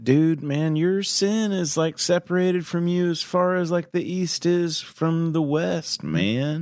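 high astonished stoner. Pretend. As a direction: marvel at it like a stoner. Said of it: "astonished stoner voice".

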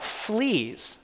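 sudden high startled cry of "Fleas!"; alarmed cry. Retold or imitated. Woman in the camp bunk crying out to her sister, startled. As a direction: jump back and cry it out high. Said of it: "and she cried out".

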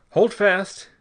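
loud, high, fierce order; savage snap. A narrator's reading. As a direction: snap it out as an urgent command. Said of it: "he snapped savagely".

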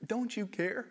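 high, indignant rising question; playful mock indignation; mock exasperated Martha. Quoting Martha's complaint.

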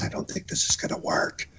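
hushed, confiding whisper. Retold or imitated. Limo driver privately warning the host of trouble, whispering. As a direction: whisper it low, as if not to be overheard. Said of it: "he's whispering to me".

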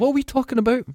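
yelping in mock confusion at a tangent; mock bewildered. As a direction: squeal it as if totally lost.

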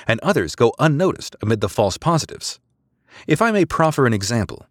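crisp, formal subordinate making a case; precise female officer. Acted. Female officer briefing commander.

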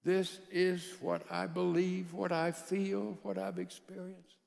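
slow, soft and sincere; sincere candid tone. Retold or imitated. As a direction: open up slowly and honestly. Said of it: "candid communication".

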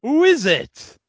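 squealing high with glee; high excited mock voice. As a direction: gasp it out in delight. Mock announcing special guest.

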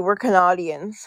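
"Canadians" with broad "ah": ca-NAH-dians; joke pronunciation. Shown as a demonstration. Canadian joining the joke, "Canadians" said ca-NAH-dians. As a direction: stretch the middle of "Canadians" to "nah". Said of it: "we call that here too".

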